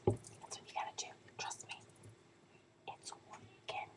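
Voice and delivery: very soft whispered assurance; hushed, barely voiced aside; confiding whisper. Real, not acted. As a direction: whisper it like a secret tip. Confiding advice to viewers.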